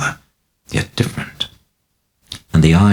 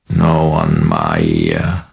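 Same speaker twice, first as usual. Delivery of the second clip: groaning whisper; 8 semitones lower, 3 dB louder, much slower than usual. A narrator's reading. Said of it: "groaning whisper in pain".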